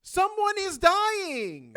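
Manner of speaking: high, loud and slow through laughter; laughing shout. Real, not acted. The GM cracking up while shouting at the table.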